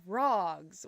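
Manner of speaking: ROGS with a soft R; drawn-out ROGS, soft R and open ah. Shown as a demonstration. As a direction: say ROGS slowly, easing into the R. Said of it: "like, a soft R".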